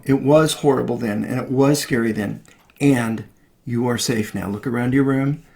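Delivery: calm comforting mother; gentle parent. Shown as a demonstration. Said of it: "cannot be in a dismissive or a shaming way".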